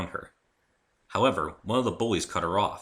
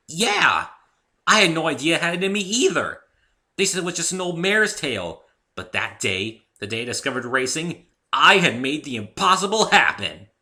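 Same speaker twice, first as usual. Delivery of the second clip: much higher and louder, proud pony brag; proud Rainbow voice; 9 semitones higher, 9 dB louder than usual. Acted. Rainbow Dash boasting to the new guy about the impossible. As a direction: boast like a champion.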